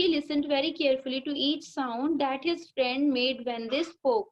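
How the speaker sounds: slow, careful reading aloud to a class; teacher reading the lesson line by line; slow textbook reading. Shown as a demonstration. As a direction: read each word out slowly for the pupils.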